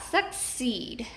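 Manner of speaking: "succeed" in two parts, long E in "ceed"; stressed second syllable. Shown as a demonstration. Teacher showing the word, "succeed" stressed on the second syllable. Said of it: "accented in the second syllable".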